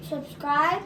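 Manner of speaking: talking through a mouthful of food; mouth full. Real, not acted. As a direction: say it round a bite. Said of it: "You've got your mouth full".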